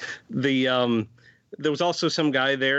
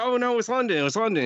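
put-on a light British accent, higher at first; 10 semitones higher, faster than usual. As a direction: play along in a mock British accent. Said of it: "I was like".

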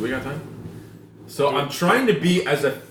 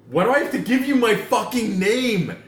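higher-pitched indignant complaint; exasperated rant; 5 semitones higher than usual. Retold or imitated. Customer ranting at a nosy drive-thru worker, exasperated. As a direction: protest it, fed up. Ranting about giving his name.

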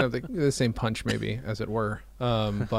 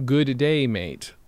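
put-on Australian accent; 2 semitones higher, 3 dB louder, much slower than usual. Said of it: "my wonderful Australian accent".

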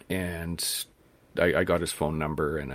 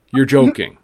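loud, higher astonished exclamation; an old hunter who can't believe it; amazed disbelief; 7 semitones higher, 12 dB louder than usual. Retold or imitated. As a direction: hunter stunned that a newbie got a moose. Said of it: "And he goes".

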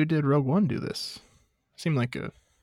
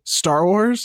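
incredulous; 7 semitones higher, 5 dB louder than usual. Retold or imitated. Friends incredulous.

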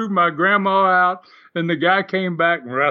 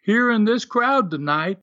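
heel promo; 4 semitones higher, slower than usual. Retold or imitated. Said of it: "He got on the microphone ... he says".

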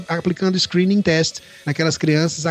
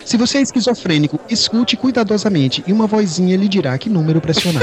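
customer service voice. Retold or imitated. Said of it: "atende a secretária eletrônica dizendo".

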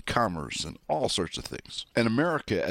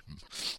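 quiet chortle; 11 dB quieter than usual. Real, not acted. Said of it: "as I'm chortling right now".

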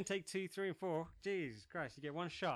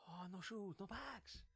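mock girlfriend voice; 4 semitones higher, 8 dB quieter than usual. Mocking the shopping girlfriend.

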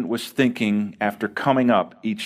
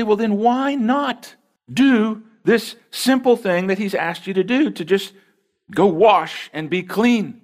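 higher, slow coaxing plea; urging servants; 8 semitones higher than usual. Acted. Servants urging Naaman to wash, slow and lifted. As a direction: spell it out slowly for their master.

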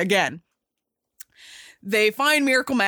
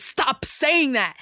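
rattled; 4 semitones higher, slower than usual. Retold or imitated. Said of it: "It's starting to get to this guy".

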